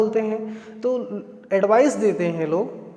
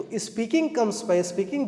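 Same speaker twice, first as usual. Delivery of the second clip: slow model phrase; 4 dB quieter, much slower than usual. Shown as a demonstration. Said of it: "तो".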